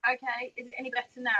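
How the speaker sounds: faint, quick question from far off; barely audible. Real, not acted. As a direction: ask it as if the mic barely catches you. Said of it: "the volume of your voice is very low".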